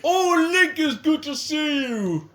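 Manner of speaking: squeaky high greeting; high falsetto voice. Retold or imitated. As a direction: falsetto old-man voice. Quoting a character.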